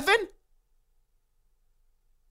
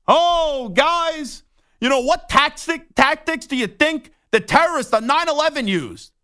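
mock coach talk; 5 semitones higher than usual. Mocking coach's team speech.

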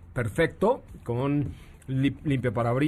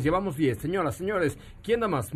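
auctioneer. Acted. Auction call for retweets.

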